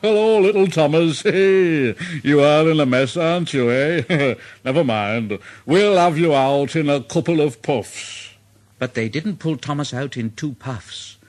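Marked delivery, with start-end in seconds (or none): 0.0-8.3 Gordon jovial. Acted. Gordon arrives to rescue.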